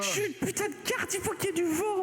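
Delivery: high, cranky card voice; grumpy talking card. Acted. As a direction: whine like a helpless card. Card complains it needs wind.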